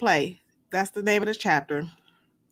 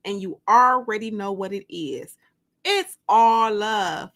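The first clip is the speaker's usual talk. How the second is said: excited greeting; 2 semitones higher, 4 dB louder than usual. Real, not acted. Host greeting her live viewers with hype. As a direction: fire up the live audience.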